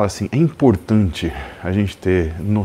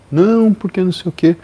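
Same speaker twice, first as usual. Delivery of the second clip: high, louder panicky excuse; panicked friend; 9 semitones higher, 5 dB louder than usual. Retold or imitated. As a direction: blurt out a frantic excuse. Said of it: "ele liga desesperado". (amigo apavorado se explicando, voz aguda)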